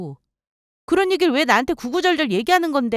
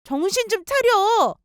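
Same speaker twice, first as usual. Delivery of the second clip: sharp rebuke; 10 semitones higher, slower than usual. Acted. Ex-wife rebukes ex-husband's pleading.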